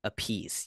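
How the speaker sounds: The speaker said "a-PIECE", stress on the end; two-syllable pronunciation. Real, not acted. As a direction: say the name to rhyme with "fleece". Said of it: "you pronounce it Appice".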